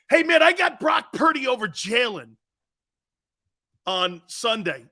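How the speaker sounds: loud, hammed-up fake pick; mock pick shout. To Tone, showing a pick he can't make, mock shout. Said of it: "Tone, watch this".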